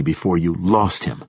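"lost" leaned on pointedly; stress on LOST. A narrator's reading. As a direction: put the weight on "lost". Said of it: "emphasizing the word lost".

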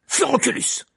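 high, loud incantation shout; exclaimed spell. A narrator's reading. Harry attacks Malfoy, shouting a spell. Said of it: "s'exclama Harry".

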